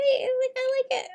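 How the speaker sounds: a high breathy whisper; whispered to herself while drawing. Real, not acted. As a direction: hush it to herself. Whispered then repeated.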